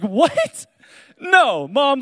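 high, loud pleading; a kid begging not to be sent away; hammed-up whiny plea to mom; mock protest.

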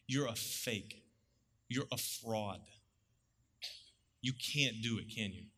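hushed contempt trailing off at the end. Retold or imitated. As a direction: quietly accuse him of being a fraud. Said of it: "They're saying".

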